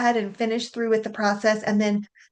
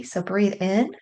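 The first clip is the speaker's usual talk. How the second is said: guided breathing; 3 dB quieter than usual. Shown as a demonstration. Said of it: "take a nice big deep breath".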